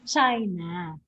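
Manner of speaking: "China" as CHI-na, low falling answer; first-syllable stress. Shown as a demonstration. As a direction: stress CHI in "China", letting -na fall away. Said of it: "the stress is put in the first syllable".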